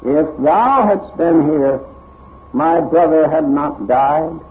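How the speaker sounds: slow, drawn-out plea leaning on "thou"; slow right down and lift "thou"; Mary's intonation. Shown as a demonstration. Showing how intonation makes the difference, slow and pleading. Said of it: "It's the intonation that makes the difference".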